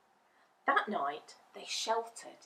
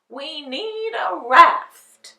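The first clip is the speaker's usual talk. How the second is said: loud, slow declaration; declaring; 7 semitones higher, 14 dB louder, much slower than usual. Acted. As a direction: announce it firmly. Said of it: "declared the Scarecrow".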